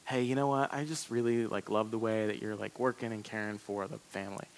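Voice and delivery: soft, low, sweet-talking wife; a hint of a wife luring him in gently; nice and loving. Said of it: "she'll say something really, like, nice and loving".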